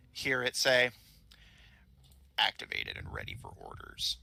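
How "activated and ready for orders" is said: much lower, flat robotic voice; monotone machine booting up. Acted. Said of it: "lets out what ... sounds like gobbledygook".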